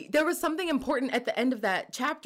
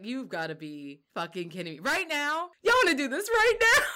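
exasperated disbelief. Retold or imitated. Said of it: "I was just like".

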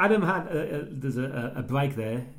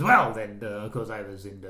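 put-on English accent; 7 semitones lower than usual. Co-host quoting the film character's patter, lightly put-on English accent. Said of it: "Puts on that English accent".

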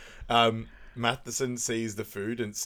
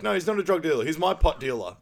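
exasperated correction; 7 semitones higher, 6 dB louder than usual. Retold or imitated.

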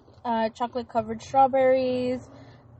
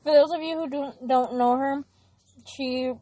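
talking with food in mouth; words round a bite of food; mouth full. Real, not acted. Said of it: "sorry, I have food in my mouth".

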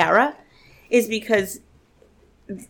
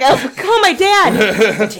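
slow, slightly higher, playfully teary; mock choked-up plea; 5 semitones higher, 4 dB louder, much slower than usual. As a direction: drag it out like a half-joking weepy plea. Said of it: "I'm like".

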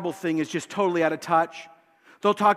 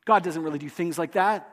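mock demon whisper; 2 semitones higher than usual. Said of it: "They'll whisper".

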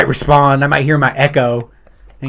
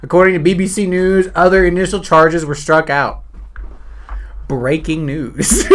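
slightly raised newsreader delivery; news read; 4 semitones higher, slower than usual. Shown as a demonstration. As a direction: read it out like a bulletin. Reads news item aloud.

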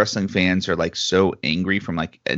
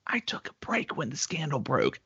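mock whisper; 7 semitones higher, 7 dB quieter than usual. Joking confession about the scandal.

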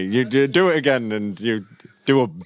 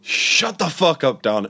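higher, drawn-out yell of the line; shouted take; 5 semitones higher than usual. Shown as a demonstration. Friend trying the Walter quote as a full shout. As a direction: bark it out as a big shout. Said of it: "it might not be that much of a shout".

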